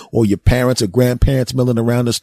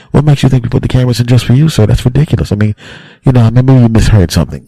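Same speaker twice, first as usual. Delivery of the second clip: defensive staff voice; 6 dB louder, faster than usual. Acted. Staff denying to customer.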